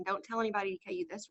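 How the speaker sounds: quick hushed aside; quiet aside. Real, not acted. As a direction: drop the voice, share a secret. Joking confidential aside to audience.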